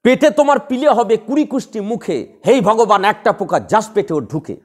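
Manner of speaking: a curse recited in a measured beat; rhythmic verse curse. Shown as a demonstration. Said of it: "তখনই তো ছন্দ হয়ে গেল". (ছন্দে বাঁধা অভিশাপ)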